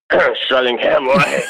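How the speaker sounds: slow, slurred, reluctant answer; acted-out mumble, hoping not to be heard; embarrassed mumble. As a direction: clear your throat and mumble it sheepishly. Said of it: "No, what was that?".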